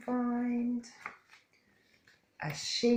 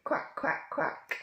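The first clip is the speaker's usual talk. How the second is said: unvoiced quacking; playful duck quack; slower than usual. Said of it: "Can you all quack like a duck?".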